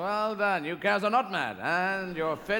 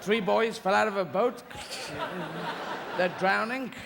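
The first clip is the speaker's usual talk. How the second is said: mock exasperated scolding; 4 semitones higher than usual. Owner to Sharky, hammed-up exasperated scolding. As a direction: give the useless shark a piece of your mind.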